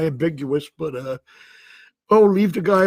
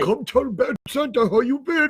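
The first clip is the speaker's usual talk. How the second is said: bad Santa come-on; 6 semitones higher than usual. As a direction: call her over like a sleazy Santa. Bad Santa calls to viewer.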